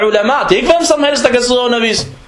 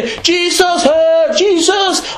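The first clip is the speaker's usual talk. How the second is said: high-pitched imitation of church cries; mock shouting; 7 semitones higher, much slower than usual. Preacher imitating a rapping church crowd, mock shouting. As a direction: mimic excited worshippers calling out, without real volume. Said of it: "Og så råber de, og så skriger de".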